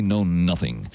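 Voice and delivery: usual speaking voice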